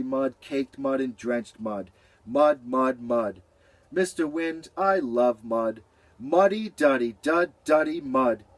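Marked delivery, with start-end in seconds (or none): 3.9-8.5 playful singsong rhyme; silly. Acted. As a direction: goof around with the sounds. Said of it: "Beaver felt silly".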